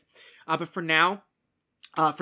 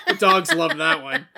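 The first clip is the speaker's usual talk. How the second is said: loud laughing line; 9 dB louder than usual. Real, not acted. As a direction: say it through a laugh. Joke said laughing.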